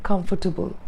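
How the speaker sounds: COMFORTABLE said evenly as "kumf-tuh-bul"; even, unforced "comfortable"; flat pronunciation. Shown as a demonstration. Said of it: "Flat is okay".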